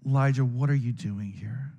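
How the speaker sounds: a light touch of a caring father; mildly tender fatherly question. Shown as a demonstration. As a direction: ask gently, like a loving dad. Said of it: "I picture God in his fatherly, caring voice saying".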